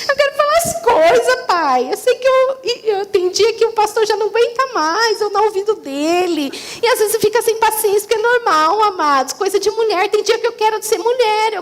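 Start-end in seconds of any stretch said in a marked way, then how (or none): 0.1-6.5 lonely plea. Retold or imitated. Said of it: "um dia eu falei".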